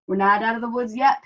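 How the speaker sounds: fast, out-of-breath warning; Dog running from the wolf, panting. Acted. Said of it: "panted Dog".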